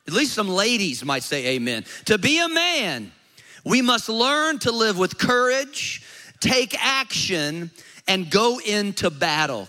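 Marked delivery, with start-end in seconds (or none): 2.0-9.7 louder, rousing reread of the quote; emphatic reread. Shown as a demonstration. Pastor rereading the quote to rouse an amen, louder and rousing. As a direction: proclaim it to stir the men. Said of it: "Let me read that one more time".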